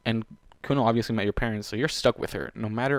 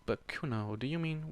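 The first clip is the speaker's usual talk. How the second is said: soft, understated murmur; 11 dB quieter than usual. A narrator's reading. Warden questioning Kuno while dizzy, murmured. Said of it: "Warden murmured".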